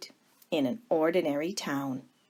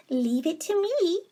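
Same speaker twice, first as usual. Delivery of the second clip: higher, eager voice of a kind younger sister; sweet Baby Lincoln; 11 semitones higher than usual. Acted. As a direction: ask it brightly, hopeful and gentle.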